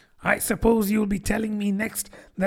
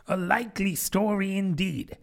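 scornful, softer high pigeon voice; deepest contempt; 7 semitones higher, 6 dB quieter than usual. Acted. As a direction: sneer it out in disbelief. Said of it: "in a tone of the deepest contempt".

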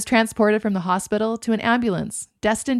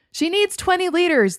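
higher, louder urgent order; commanding; 10 semitones higher, 4 dB louder than usual. A narrator's reading. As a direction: bark the order to the crew. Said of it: "the E M T commanded".

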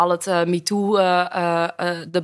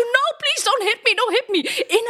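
mock pleading; 14 semitones higher than usual. Acting pleading victim in audition.

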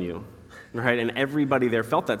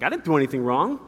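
put-on higher, indignant kid objecting; retold child's protest; 5 semitones higher, 4 dB louder than usual. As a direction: protest your innocence like a kid. Child protests being made to run.

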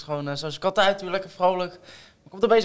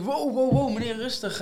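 retold plea for calm, pitched up; acted calming protest; 6 semitones higher, 3 dB quieter than usual. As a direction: act out reining in an angry customer. Retelling how he calmed angry customer.

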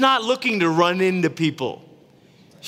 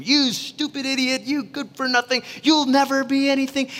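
a hint of a scolding parent, higher; mock parent tirade; 8 semitones higher than usual. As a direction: imitate the harsh parent lightly. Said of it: "launch into this tirade against them".

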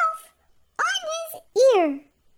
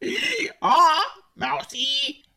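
much lower, slow sung donkey voice; donkey's lullaby; 6 semitones lower, much slower than usual. A narrator's reading. Missus Donkey singing baby elf a low, slow lullaby. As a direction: bray it gently as a lullaby. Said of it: "came and sang a song".

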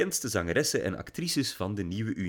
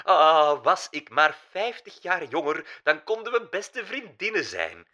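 put-on high, loud, lamenting German-accented diva; German-accented old diva lamenting her age; wailing German accent; 7 semitones higher, 4 dB louder than usual. A narrator's reading. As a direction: wail it like a vain old German star. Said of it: "weeklaagde Mila Mossa".

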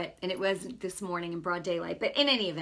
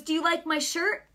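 imitated wise guy, pitched up, louder; tough wise guy; 8 semitones higher, 5 dB louder than usual. Man accosting a stranger about his shirt, mock wise guy. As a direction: lightly mimic a cocky tough guy. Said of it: "kinda like a tough slash wise guy".

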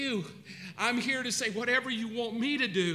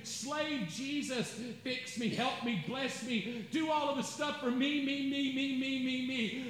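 demanding prayer; 4 semitones higher than usual. Shown as a demonstration. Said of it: "rather than praying".

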